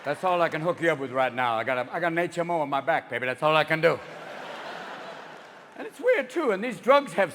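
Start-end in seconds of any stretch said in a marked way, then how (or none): 0.0-4.0 lightly voiced dealer, low-pitched; a hint of a confidential low-voiced hustle; free-sample pusher. Supplier explaining his limited stock, lightly acted low voice. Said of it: "he's always giving me free samples like".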